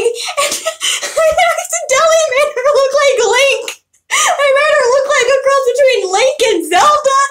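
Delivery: high voice bubbling with laughter; real laughter. Real, not acted. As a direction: tell it while fighting the giggles. Cracking up at own story.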